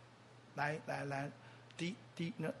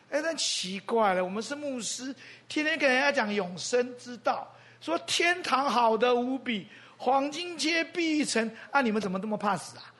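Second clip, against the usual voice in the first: higher, teasing disbelief, slowing on the heaven lines; incredulous mockery; 5 semitones higher, 4 dB louder than usual. Pastor teases retired colleagues fussing over health, mocking disbelief. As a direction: poke fun at pastors who fear dying.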